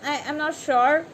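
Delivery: a hammed-up wobble of doubt; mock uneasy alarm. Reader rattled by a card that just came, mock alarm. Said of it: "Then you're like".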